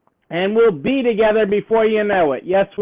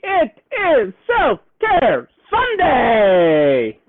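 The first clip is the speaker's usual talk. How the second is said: slow, stretched-out announcement of the day; drawn-out announcement; much slower than usual. Pretend. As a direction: stretch "Self-Care Sunday" slowly like a show host. Livestream greeting, drawn-out announcement.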